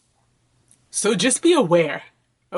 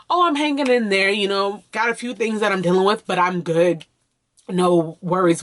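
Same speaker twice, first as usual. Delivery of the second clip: casual reassurance; 2 semitones higher than usual. Shown as a demonstration. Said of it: "So you can just say".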